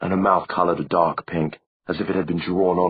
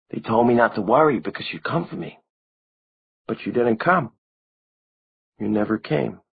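put-on higher, girlish voice, hurt and accusing; a dead girl blaming the one who never came; young vampire girl Maureen, reproachful; 5 semitones higher than usual. A narrator's reading. Dead girlfriend reproaching Simon, higher and girlish.

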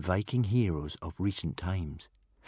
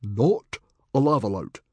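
louder, wondering relief; relieved pronouncement; 3 semitones higher, 6 dB louder than usual. A narrator's reading. Stoic sheathes his sword, relieved. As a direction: let the suspicion go. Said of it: "pronounced Stoic with relief".

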